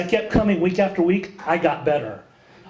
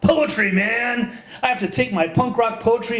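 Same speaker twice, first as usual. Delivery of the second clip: a touch of grandiose zeal; mock enthusiasm; 4 semitones higher than usual. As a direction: proclaim it like a cocky young poet. Mock excited young self's declaration.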